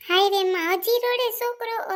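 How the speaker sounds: high, loud cry of dismay; dismayed exclamation. Acted. Mother hearing the child is still crying, dismayed exclamation. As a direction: exclaim high, drawing the words out slowly.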